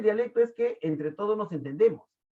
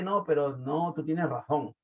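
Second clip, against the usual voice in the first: lightly imitated Castilian accent, razón with a lisped th; a hint of a Madrid accent, lisping the z in razón; Spanish from Spain accent; 2 semitones lower than usual. Teacher mimics a Madrid speaker to his class, a light Castilian accent. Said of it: "es el español".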